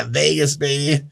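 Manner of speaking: put-on laughing, rowdy cry of "Vegas, baby"; party shout. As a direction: whoop it like a hungover partier. Drunk passenger answers upset neighbor.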